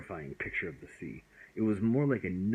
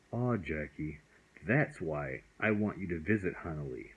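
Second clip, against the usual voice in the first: gentle comfort; 2 semitones lower than usual. Acted. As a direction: soothe the frightened boy kindly. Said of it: "spoke to the paper's child gently".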